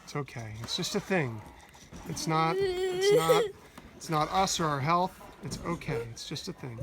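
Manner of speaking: quiet reassurance to a sad little son; hushed soothing. Real, not acted.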